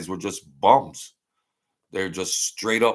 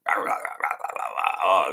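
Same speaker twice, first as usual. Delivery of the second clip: mock loudmouth yapping; 3 semitones lower than usual. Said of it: "with the Brooklyn accent".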